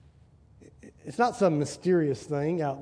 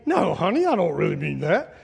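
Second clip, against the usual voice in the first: lightly mock-innocent husband, raised on "honey"; sneaky placating tone. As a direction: sweet-talk a wife, not quite convincingly. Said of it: "we think we're pretty sneaky and crafty".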